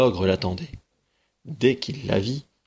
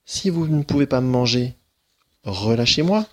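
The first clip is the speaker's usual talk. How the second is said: put-on pleading girl; 4 semitones higher, 4 dB louder than usual. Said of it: "La fillette proposa".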